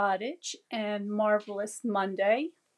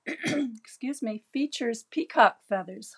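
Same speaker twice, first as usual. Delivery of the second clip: raspy voice after throat clearing; strained, losing her voice; hoarse voice. Real, not acted. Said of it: "I'm losing my voice right now".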